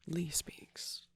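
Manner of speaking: "Lee Speaks" with Lee rhyming with see; tentative pronunciation. Shown as a demonstration. Unsure how a name is pronounced, "Lee Speaks" said as "lee". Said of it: "if that's how you pronounce it".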